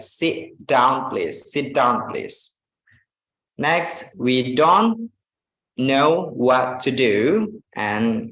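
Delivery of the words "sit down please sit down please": "Sit down" with the T held silent, please fading out; connected speech demo. Shown as a demonstration. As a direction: drop the T of "Sit" and glide on. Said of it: "Say, like".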